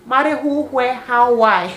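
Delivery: long high, loud cry, then rapped-out questions; acted shocked outcry. Girlfriend reacting to a marriage proposal, shocked outcry. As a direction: exclaim in hammed-up disbelief.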